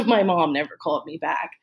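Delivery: half-laughing bitter repeat; rueful laugh. Real, not acted. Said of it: "you know, my mom never called me back".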